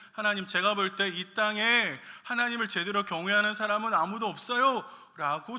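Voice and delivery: Satan insisting. Acted. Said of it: "사탄은".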